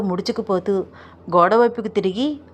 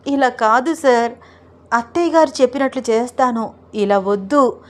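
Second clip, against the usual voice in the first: raised, sing-song pleading of a shy bride; lightly voiced bashful wife, pitch lifted; coy pleading wife; 4 semitones higher than usual. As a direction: wriggle out of it with teasing excuses. Roopa runs from Arjun.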